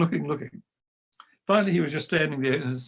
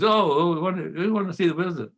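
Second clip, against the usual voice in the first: quick, higher eager pleading; eager kids; 4 semitones higher than usual. Retold or imitated. Boys begging to see the wizard, quick and eager. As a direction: beg like excited choirboys.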